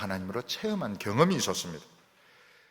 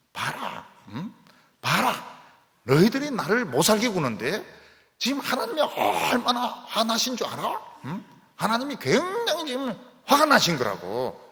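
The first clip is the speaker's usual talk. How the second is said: higher, louder triumphant warning; David taunting his enemies; 9 semitones higher, 4 dB louder than usual. Acted. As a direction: point at the storm and gloat to the enemies. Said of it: "다윗은 그런 식으로 해석을 하고". (적들에게 높고 크게 외치는 다윗의 의기양양한 경고)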